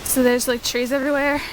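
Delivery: breathless after gymnastics; out of breath, panting between words. Real, not acted. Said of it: "super out of breath".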